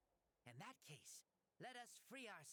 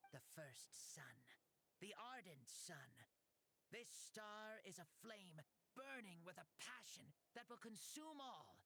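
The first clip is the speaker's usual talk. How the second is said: solemn declaration. Acted. Solemn challenge speech.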